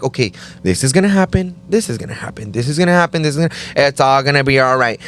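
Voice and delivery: self-reassuring. Retold or imitated. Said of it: "try to be like".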